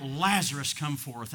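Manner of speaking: brief mock call, punched on the name; lightly acted summoning cry; imitated cry out. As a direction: call out the name, then drop back. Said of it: "And Jesus cried out".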